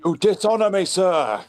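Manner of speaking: alien warrior voice. Acted. Mock Sontaran warrior line.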